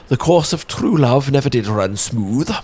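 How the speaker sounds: posh Shakespearean actor. Pretend. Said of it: "my bad attempt at doing a posh Shakespearean actor voice".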